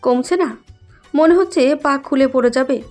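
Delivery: whining through put-on tears; tearful complaint. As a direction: play up the pain as if crying. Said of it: "Ayana কাঁদতে কাঁদতে বলল".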